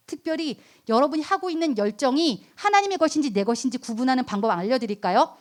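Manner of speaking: ordinary talk, nothing marked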